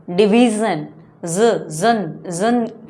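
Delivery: division ending in buzzed "zun", then जन isolated; "zun" sound. Shown as a demonstration. Teacher points out the sound in division, जन as "zun". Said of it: "जन की sound आ रही है".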